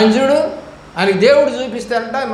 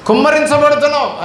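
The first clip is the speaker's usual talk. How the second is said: higher, louder mock proclamation of blessing; mock loud pastor; 7 semitones higher than usual. Preacher mimics another pastor proclaiming blessings, in a mildly hammed-up loud voice. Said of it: "అని అంటాడంట గట్టిగా".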